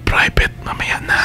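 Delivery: breathy hushed whisper. Pretend. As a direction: keep it secret, whisper. Hushed aside to lover on air.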